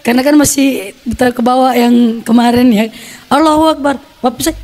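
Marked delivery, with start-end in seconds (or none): 3.3-4.0 higher-pitched cry at ordinary volume; mild mock yell of desperation; retold cry out. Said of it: "saya sampai berteriak". (teriakan tiruan yang tertahan)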